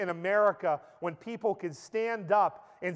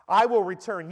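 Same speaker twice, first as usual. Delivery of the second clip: "will" hit hard, louder; booming declaration; 6 dB louder than usual. Acted. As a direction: proclaim it like a king. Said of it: "repeated as Christ, now booming".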